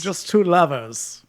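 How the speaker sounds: slow, stretched, sultry mock croon; slow sultry SNL voice. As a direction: drawl it like the sketch, lovingly. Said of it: "that S N L skit".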